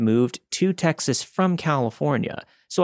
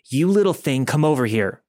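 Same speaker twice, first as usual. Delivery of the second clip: a raised, higher mock yell at the girl; retold yell; 4 semitones higher, 4 dB louder than usual. Creepy man yelling at the girl who kicked him, mock yell. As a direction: voice the creep snapping at her, louder. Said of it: "he yelled".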